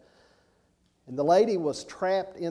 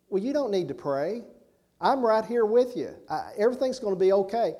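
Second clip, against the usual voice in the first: higher, louder comforting voice for the dying woman; reassuring; 7 semitones higher, 4 dB louder than usual. Retold or imitated. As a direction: soothe her like a rescuer who won't leave. Danny reassures dying lady.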